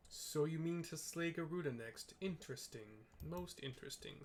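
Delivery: villain voice. Acted. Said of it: "says La Habrea".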